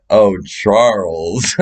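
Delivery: slow, mocking name-call; slow mock teasing; teasing drawl. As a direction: stretch his name to tease. Women teasing him by nickname.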